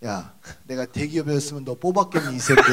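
imitating an amused boss's put-down; mock scolding with a laugh in it; laughing retort. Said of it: "제가 웃으면서 얘기하죠". (웃으면서 핀잔주는 사장 흉내)

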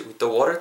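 "with the water" slipping out in one smooth run; smoothly gliding pronunciation. Shown as a demonstration. Teacher reviewing the phrase, gliding "with the water". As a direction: glide "with the" into "water" without a break. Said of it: "구렁이 담 넣으시".

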